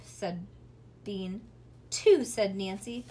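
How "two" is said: higher and louder bargain; loud haggling. Acted. Sister haggling with Bean, loud high counteroffer. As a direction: snap back the counteroffer loud. Haggling over babysitting money.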